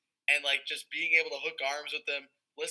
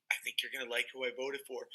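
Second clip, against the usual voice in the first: softer, confiding quote; imitated whisper; 2 semitones lower, 6 dB quieter than usual. Castmate confiding his vote, lightly imitated whisper. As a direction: imitate a secret told in the ear. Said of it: "He whispers in my ears".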